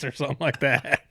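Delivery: ordinary delivery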